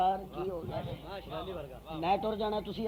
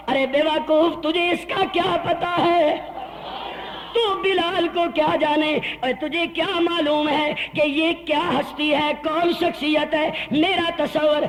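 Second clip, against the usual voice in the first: proud rebuke; 5 semitones higher, 4 dB louder, slower than usual. Retold or imitated. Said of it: "مسکرا کے کہا ہوگا".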